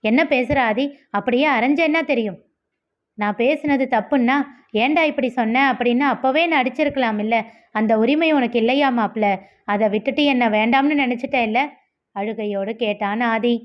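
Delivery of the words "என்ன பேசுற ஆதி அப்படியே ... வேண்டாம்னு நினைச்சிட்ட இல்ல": brisk, lightly heated reproach; understated acted anger, quickening at times; mild angry outburst. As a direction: tell off a friend with restrained anger. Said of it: "கோபமாக கத்தினான் நிதிஷ்".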